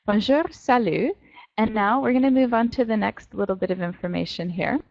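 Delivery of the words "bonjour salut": "Bonjour" with growled R, "salut" with silent T; French pronunciation. Shown as a demonstration. Teacher sums up both greetings, French pronunciation. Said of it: "you hit your growly bear R's on the end".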